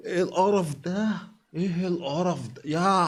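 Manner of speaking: disgusted. Real, not acted. Host reacting to a revolting pickle video, disgusted. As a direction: recoil in disgust, dragging the words.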